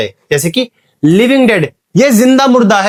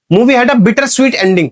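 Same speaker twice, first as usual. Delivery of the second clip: very slow, a bit higher, each word spaced; slow example read; 4 semitones higher, much slower than usual. Shown as a demonstration. Teacher reads the oxymoron example slowly to students.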